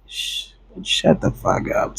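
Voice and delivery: low, slow, whispered shush; hissed whisper. Retold or imitated. He whispers at the lying girlfriend, hushed. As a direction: whisper it through your teeth at her.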